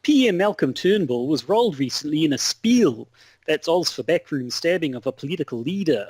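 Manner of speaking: put-on Aussie correspondent; lightly hammed-up Australian news report; Australian accent. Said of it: "on this beautiful Australian accent".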